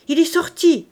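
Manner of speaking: high, loud call; crying out. A narrator's reading. Eldest girl reports to her father, crying out. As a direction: shout the news across to your father. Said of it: "cria une voix".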